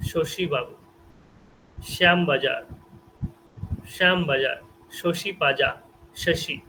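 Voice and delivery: sh sound in শশী and শ্যামবাজার; spaced-out examples, each শ a clear sh; palatal sh. Shown as a demonstration. Teacher giving example words to students, palatal sh. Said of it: "এই যে স".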